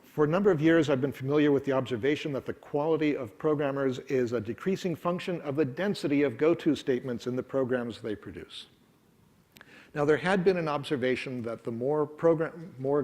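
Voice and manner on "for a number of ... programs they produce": read-aloud quote. Shown as a demonstration. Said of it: "read it with my funny accent".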